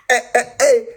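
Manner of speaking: high excited little cheers; celebratory squeal. Real, not acted. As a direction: squeal with joy at the news. Celebrating getting into class.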